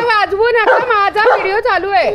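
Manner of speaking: playful loud proxy scolding; calling out for Tiger. Acted. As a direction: call it out high on the pet's behalf. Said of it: "तो बोलतोय".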